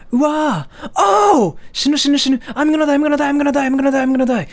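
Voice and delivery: high mock wail; mortified wail. Kid embarrassed before teacher, high mock wail. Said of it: "And you have to say".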